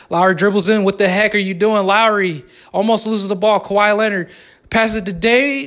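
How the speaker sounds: mock sports commentary, calling each pass; joking courtside call of a Raptors possession; play-by-play. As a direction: narrate the game like a broadcaster.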